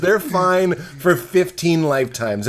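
exasperated rant. Retold or imitated. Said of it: "I'm like".

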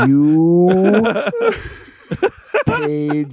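put-on slow, careful Chinese accent; mock Chinese-accented manager. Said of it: "pretty thick Chinese accent".

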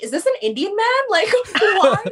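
high, laughing retold puzzlement; amused confusion at an Indian-voiced GPS; laughing disbelief. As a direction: giggle through the baffled question. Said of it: "I was like".

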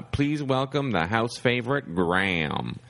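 slow, high, showman announcement; emcee introduction. Retold or imitated. Star introducing the new comic to the crowd, slow and grand. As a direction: stretch it out like a big host. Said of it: "he's like".

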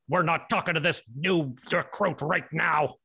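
low, stern army man voice; drill sergeant. Acted. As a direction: bark orders like a sergeant. Army man toy barks orders.

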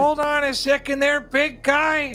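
high, urgent calling out; frantic shouting hostage taker. Acted. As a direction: try to calm a raging brute. NPC trying to stop rampage.

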